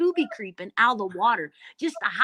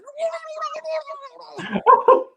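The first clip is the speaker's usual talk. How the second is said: laughing mock scream; 9 dB louder than usual. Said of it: "I'm just screaming at the top of my lungs".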